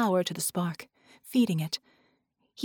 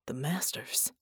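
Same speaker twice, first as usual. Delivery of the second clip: gasped; 6 semitones lower, 8 dB quieter than usual. A narrator's reading. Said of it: "John gasped".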